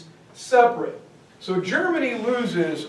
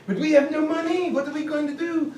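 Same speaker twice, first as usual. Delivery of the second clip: panicky plea; 7 semitones higher, faster than usual. Retold or imitated. Allies plead with America.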